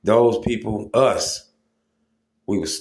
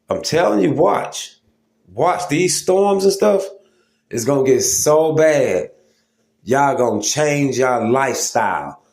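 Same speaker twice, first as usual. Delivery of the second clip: urgent warning; 5 semitones higher than usual. Real, not acted. Warning his viewers about deadly storms, urgent and high. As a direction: raise the alarm, pitch jumping up.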